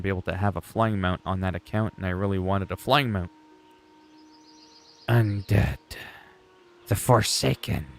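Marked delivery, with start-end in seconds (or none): 5.1-7.9 half-hearted undead voice with a slightly altered timbre; terrible undead impression. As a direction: lightly put on an undead game character, one word at a time. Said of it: "that was a terrible voice impression".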